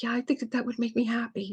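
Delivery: put-on small, high, soft child voice; mock tearful little girl; imitated crying. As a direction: answer meekly, as a weepy child. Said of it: "she's just crying".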